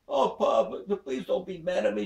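put-on high pleading girl voice; pleading daughter. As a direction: beg him again. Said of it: "She says".

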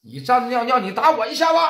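angry taunt. Acted. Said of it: "王建军讲话了".

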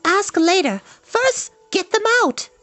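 put-on very high, impatient girlish voice; high-pitched insistence; demanding. A narrator's reading. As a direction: give orders in a high, urgent girl's pitch. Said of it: "Eilonwy demanded".

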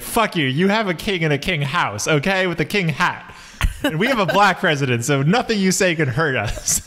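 lightly voiced drunk patriot; mock drunk American. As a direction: imitate an offended drunk tourist abroad. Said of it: "Drunk person in a country with a monarchy".

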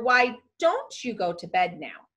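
a suggestion leaning on "don't"; polite request. Shown as a demonstration. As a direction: offer it as a mere suggestion, stressing "don't". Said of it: "A wish or request".

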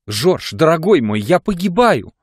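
зарыдав. A narrator's reading. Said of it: "вдруг зарыдала".

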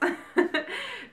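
high giggle of pure delight; real high-pitched happy laugh. Real, not acted. Gift opener thrilled with her new palette, high delighted laugh.

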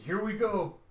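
loud and high, bracing to jump; calling out. Acted. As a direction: call it out before the big leap. Calling out before leaping into sea.

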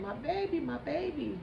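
high-pitched wailing lament; imitated wailing. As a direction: act out a parent crying out over their child. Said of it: "That's all I keep hearing".

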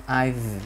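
drawn-out "I've" with a voiced V; slow "I've", ending on a clearly voiced V. Shown as a demonstration. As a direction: let the V in "I've" buzz. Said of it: "là hữu thanh".

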